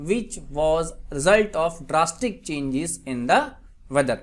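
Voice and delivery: very slow, spaced-out example reading; slow dictation. Shown as a demonstration. Teacher gives students an English translation, slow dictation. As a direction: read it out slowly, phrase by phrase. Repeats example sentence slowly.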